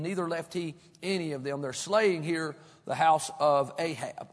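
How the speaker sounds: measured, formal reading of the verses; scripture reading. Acted. Preacher reading scripture to the congregation, measured. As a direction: read the passage steadily to the congregation.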